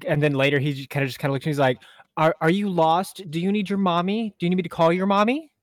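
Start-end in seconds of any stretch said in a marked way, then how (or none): 2.2-5.5 mocking baby talk. Coworker mocks him like a child.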